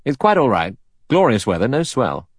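lifted, easy-going reassurance; pleasant, easy voice. A narrator's reading. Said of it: "said in his pleasant, easy voice".

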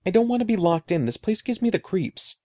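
put-on nervous kid pleading to get out; scared pleading. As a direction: rush it out, frightened of being locked in. Scared boy begs to leave.

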